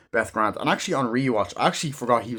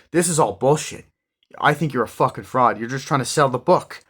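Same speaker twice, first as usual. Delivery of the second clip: raised, heated accusation, pitched up; angry argument; 4 semitones higher, 6 dB louder than usual. Retold or imitated. Donnie arguing with the speaker, angry and loud. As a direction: call him a fraud, loudly.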